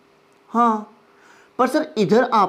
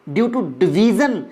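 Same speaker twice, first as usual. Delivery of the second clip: due to division said even slower; slow emphasis; much slower than usual. Shown as a demonstration. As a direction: stretch it out so it sinks in. Teacher repeats key phrase slowly.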